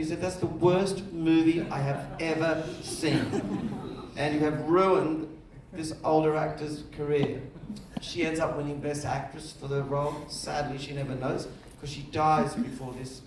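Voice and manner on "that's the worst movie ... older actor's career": slow, emphatic mock condemnation; retold damning verdict. Theatre owner condemning the director's first movie, slow mock outrage. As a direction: deliver each word as a weighty imitated verdict. Exhibitor's angry verdict on the film.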